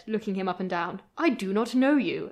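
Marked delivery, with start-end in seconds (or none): 1.2-2.3 haughty, a touch higher and louder; prim Victorian lady. Retold or imitated. She snubs the stranger, haughty. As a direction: cut him dead politely. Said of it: "And she says".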